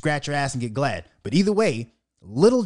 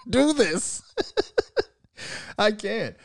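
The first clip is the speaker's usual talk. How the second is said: slow, laughing, higher mock breakdown; imitating Joe Budden; 5 semitones higher, much slower than usual. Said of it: "He was like".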